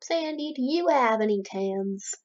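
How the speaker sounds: light Southern twang on a card question; southern accent. Acted. SpongeBob asking Sandy for cards, southern accent. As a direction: put on a touch of Southern accent. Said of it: "Why did I give him a southern accent?".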